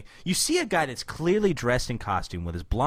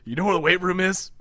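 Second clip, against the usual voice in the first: Shredder voice; 4 semitones higher, 4 dB louder than usual. Pretend. Voicing Shredder asking.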